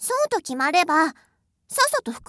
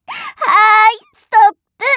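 loud, sing-song stop call; loud command; 4 semitones higher, 9 dB louder than usual. Acted. Mistress loudly calling a halt to her pet, sing-song.

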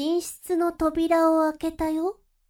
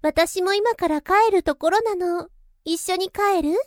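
bright, louder voice of a friendly mother; friendly older woman; 2 semitones higher, 5 dB louder than usual. Acted. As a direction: invite gently, a bit louder than the narration. Friend's mother invites you home.

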